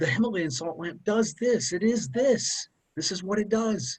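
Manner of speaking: passionate, emphatic, forceful delivery with intensified intonation. Demonstrating how to present the himalayan salt lamp: forceful, intensified intonation. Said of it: "Use that intonation".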